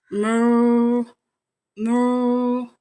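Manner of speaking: cow moo. Acted. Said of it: "said the cow".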